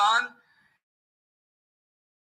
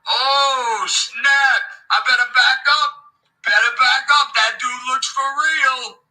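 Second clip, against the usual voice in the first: mock fright; 4 dB louder than usual. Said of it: "I'm scared, dog".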